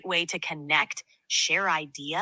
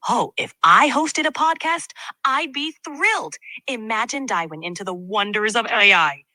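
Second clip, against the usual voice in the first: excited; 3 semitones higher, 3 dB louder than usual. Acted. AI asked to host with crazy emotions, excited. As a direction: gush about AI like a fan. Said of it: "use a lot of crazy emotions".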